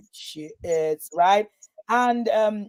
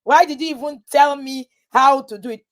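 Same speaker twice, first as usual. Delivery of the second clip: raised, insistent acted complaint; mock protest; 4 semitones higher, 4 dB louder than usual. Friend demanding to know how to do it, mock indignant. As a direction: protest loudly in playful indignation.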